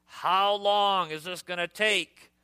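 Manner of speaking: mock child whining at a parent; exasperated whine. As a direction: drag out the impatient question. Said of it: "He's exasperated. He's frustrated".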